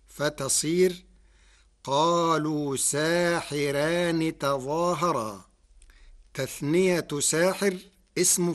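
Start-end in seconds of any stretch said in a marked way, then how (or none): 1.8-5.4 ساحران with the ra thinned, light and unrolled after the kasra. Shown as a demonstration. Teacher reciting the Warsh reading to students, thin ra in ساحران. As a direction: recite ساحران keeping the ra light, not heavy. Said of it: "ولا يخفى ترقيق الراء لكسر قبلها".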